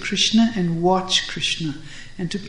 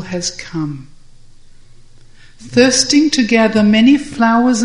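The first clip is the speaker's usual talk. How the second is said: smiling; 3 semitones higher, 4 dB louder than usual. Acted. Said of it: "smiles at Krishna and says".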